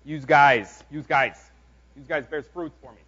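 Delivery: half-hearted mock New Jersey accent; bad New Jersey accent. Preacher jokingly translating scripture for his congregation, bad New Jersey accent. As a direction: put on a rough New Jersey accent, badly. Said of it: "that's a bad accent".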